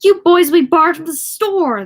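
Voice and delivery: high, loud threatening yell; clerk yelling. Acted. Clerk yelling after Richie as he runs off, high and loud. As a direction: shout a store threat after a fleeing kid. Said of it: "the clerk yelled after him".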